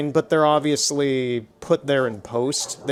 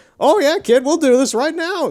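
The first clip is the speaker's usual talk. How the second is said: very high-pitched, eager, raring-to-go enthusiasm; 12 semitones higher, 6 dB louder than usual. Retelling a movie moment: imitating an excited Oompa Loompa. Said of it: "so excited to zap Mike T V".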